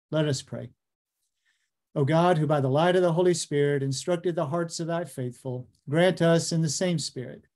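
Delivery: solemn, measured prayer recitation. Acted. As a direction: pray aloud, steady and reverent. Opening prayer before the lecture.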